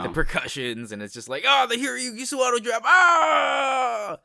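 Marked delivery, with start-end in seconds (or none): 1.5-4.2 high, far-off hyped-up shout; hype squeal. Retold or imitated. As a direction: squeal at the drop like a fan. Imitating hype at the music drop.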